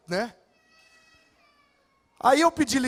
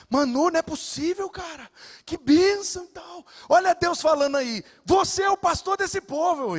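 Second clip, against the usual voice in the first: higher, delighted voice of the senior pastor; excited pastor; 6 semitones higher than usual. Retold or imitated. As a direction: sound thrilled at the good news. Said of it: "Eu falei".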